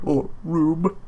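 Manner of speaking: words through a yawn. Real, not acted. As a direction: say it mid-yawn. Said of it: "I'm yawning a little bit".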